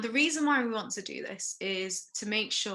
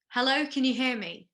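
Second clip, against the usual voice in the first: a firm, raised call to a collapsed patient; loud check call; 3 semitones higher, 4 dB louder than usual. Shown as a demonstration. First aider demonstrating to trainees, a raised call. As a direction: call out clearly as if testing a response. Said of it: "we want to say that loudly".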